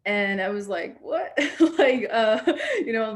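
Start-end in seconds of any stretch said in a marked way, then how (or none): 1.0-1.4 confused what. Retold or imitated. Confused little girl at river. 1.4-3.1 laughing through the words; a real laugh breaking the sentence; giggling while telling it. Real, not acted.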